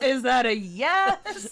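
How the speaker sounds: slow, laughing question. Retold or imitated. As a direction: ask it slowly through laughter. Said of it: "It's like".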